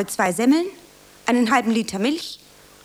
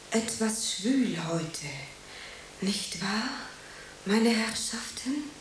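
rehearsed line; 4 semitones lower, 7 dB quieter, slower than usual. Acted. Actress rehearsing her line.

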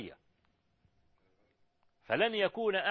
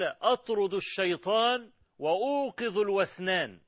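louder, higher and slow, quoting a man who prays aloud; retold raised voice; 5 semitones higher, 5 dB louder, slower than usual. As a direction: lift the voice firmly, drawing out each word. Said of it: "فإذا صوته عال".

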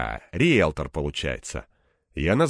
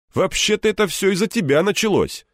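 louder, higher indignant retort; raised retort; 12 semitones higher, 5 dB louder than usual. Acted. Egor blaming Anton, louder and indignant. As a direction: push back hard, louder.

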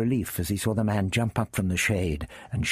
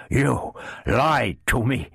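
fierce; 6 semitones higher, 3 dB louder, slower than usual. Acted. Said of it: "he said fiercely".

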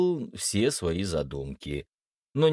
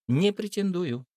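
higher, lightly smirking reply; 9 semitones higher than usual. A narrator's reading. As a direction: decline with a smirk in the voice. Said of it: "ухмыльнулась Даша". (с лёгкой ухмылкой)

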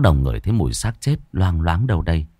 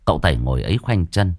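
ordinary delivery

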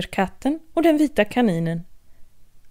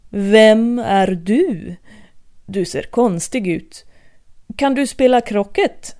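haughty queen; 4 dB louder, slower than usual. Acted. Queen confronts Alice.

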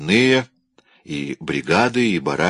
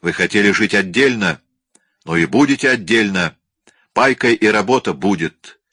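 angry boss. Acted. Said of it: "Начальник кричал".

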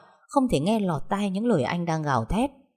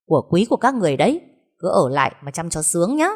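fast, louder scornful taunt; sneering jab; 4 dB louder, faster than usual. Acted. Wife sneering at her husband's family before walking out, fast and scornful. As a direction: spit it out mockingly and leave. Hương mocks and walks out.

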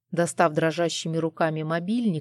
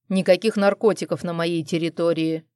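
growl; 3 dB louder than usual. Acted. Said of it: "прорычал я".

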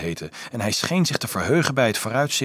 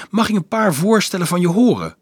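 lifted, louder friendly question; hearty; 10 semitones higher, 6 dB louder than usual. A narrator's reading. Monk asking the newcomer for proposals, hearty. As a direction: invite suggestions heartily. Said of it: "zei hij hartelijk".

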